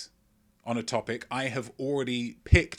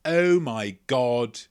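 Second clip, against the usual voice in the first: mock starstruck gasp; 2 semitones higher, 9 dB louder, much slower than usual. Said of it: "They're thinking".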